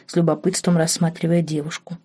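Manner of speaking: ordinary delivery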